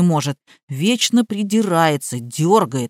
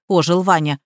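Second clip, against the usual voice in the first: ordinary delivery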